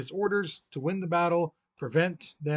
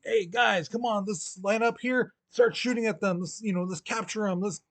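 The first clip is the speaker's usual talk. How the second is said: higher-pitched urging to the troops; mock rallying call; 5 semitones higher than usual. General rallying his men to capture Lee, mock urgency. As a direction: round up the guys, hammed up a little.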